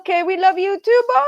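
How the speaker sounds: high, loud, quick farewell; excited goodbye. Real, not acted. Signing off the call to Bill.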